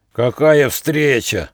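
slow, gloating grin of a greeting; grinning sneer. Acted. Pack leader grins at his trapped prey, slow and gloating. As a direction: savour the meeting like a predator. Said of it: "оскалив зубастую пасть, ухмыляясь".

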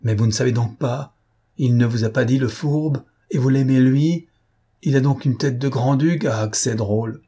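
crié, hors de lui, plus aigu; cri furieux. Acted. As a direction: hurle ta rage contre elle. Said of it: "il cria". (cri hors de lui)

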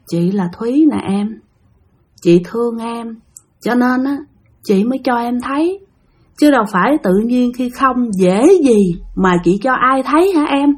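a hint of a ghostly, uncanny murmur; possessed eerie voice. Ghost of Thúy speaking through the boyfriend, lightly eerie. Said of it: "nó trầm trầm, nó ồn ồn, nghe thấy ghê lắm".

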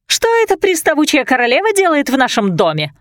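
high, mock-indignant squeal; Martha, outraged at the queen in their home, in a high indignant squeal; indignant screech. A narrator's reading. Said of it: "возмущённо заверещала Марта".

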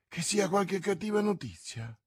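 high-pitched worried wondering; anxious dread. Acted. Bonacieux fears bad news arriving.

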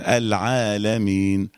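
low, slow "العالمين"; two-count alef. Shown as a demonstration. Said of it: "أكتر من حركتين اتنين".

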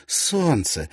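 bright excited cry, pitch up; exclaiming. A narrator's reading. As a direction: point it out with delight. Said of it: "воскликнула она".

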